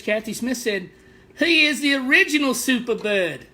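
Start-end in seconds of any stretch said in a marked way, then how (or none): 1.4-3.4 put-on a light, half-hearted British accent, a little higher. Reading a viewer's comment to the stream in a light British accent. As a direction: read the comment in mock British. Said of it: "This one's in British".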